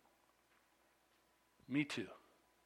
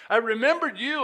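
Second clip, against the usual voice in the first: loud, high surges on key words; dramatic scripture reading; 8 semitones higher, 8 dB louder than usual. Acted. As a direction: declaim the psalm as a cry to God. Reads the psalm aloud.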